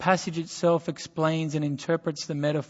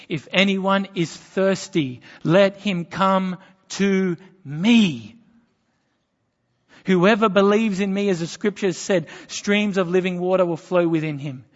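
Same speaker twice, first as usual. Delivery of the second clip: loud proclamation; 2 semitones higher, 6 dB louder than usual. Retold or imitated. Preacher voicing Jesus calling to the festival crowd, loud proclamation. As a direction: call it out like Jesus at the feast. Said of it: "said in a loud voice".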